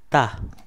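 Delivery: ता said with a hard t, not दा. Shown as a demonstration. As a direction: model ता clearly, not दा. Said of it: "इसको, अ, दा नहीं पढ़ेंगे बल्कि इसको ता पढ़ेंगे". (ता, दा नहीं)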